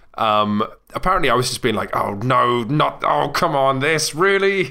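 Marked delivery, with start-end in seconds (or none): 2.0-4.7 put-on gritted-teeth shout, higher, slower. Recalling their own complaints while doing heroic swinging stunts, retelling shouting through gritted teeth. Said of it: "Through gritted teeth and trembling and shouting and shaking".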